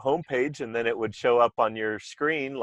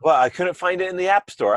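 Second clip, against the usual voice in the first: higher, puzzled user voice; 7 semitones higher, 5 dB louder than usual. Retold or imitated. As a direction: play the confused customer, pitched up. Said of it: "I'm like".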